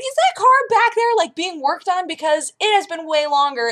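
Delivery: high chirpy overpolite question; polite customer voice. Retold or imitated. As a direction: put on a nice voice for the manager. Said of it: "I was like".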